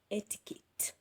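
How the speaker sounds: etiquette whispered very softly; whispered word. Real, not acted. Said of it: "whispered word".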